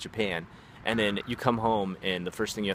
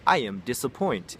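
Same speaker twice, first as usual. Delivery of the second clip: imitated student; 4 semitones higher, 5 dB louder than usual. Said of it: "they'd be like".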